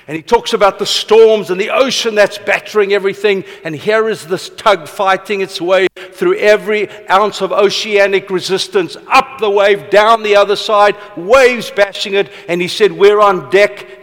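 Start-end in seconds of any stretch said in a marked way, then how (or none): 0.1-12.3 impassioned storyteller imitating a mentor's fervour; vivid, dramatic retelling. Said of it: "then he gets all vivid and dramatic". 12.9-14.0 slow, emphatic retold declaration; dramatic mentor. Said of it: "then he gets all vivid and dramatic".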